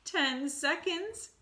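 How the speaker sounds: slow, high, loud witch cry. Acted. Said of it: "cried the Grand High Witch".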